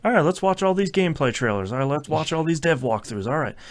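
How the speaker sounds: high, quick and eager; eager excitement. Retold or imitated. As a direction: rattle it off, hyped up. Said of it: "And now I'm like".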